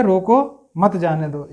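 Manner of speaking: रोको, a short break, then मत जाने दो together; pause after रोको. Shown as a demonstration. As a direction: hold briefly after रोको before मत जाने दो. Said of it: "यहाँ पे थोड़ा रुकना पड़ेगा". (रोको के बाद थोड़ा रुककर मत जाने दो)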